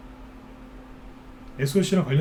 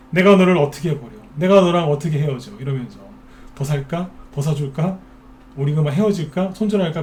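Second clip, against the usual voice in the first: a hint of a lover pleading with a stock; mock lovesick investor. Host mocking investors who cling to losing stocks, lightly lovesick. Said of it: "그러고 있는 거예요".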